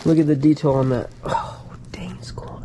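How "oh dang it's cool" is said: soft breathy whisper over the find. Real, not acted. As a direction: whisper it so as not to disturb. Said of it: "Why am I whispering?".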